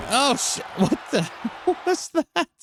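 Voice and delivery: high startled laugh; surprised. Real, not acted. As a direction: caught off guard, laughing. Sudden surprise at game moment.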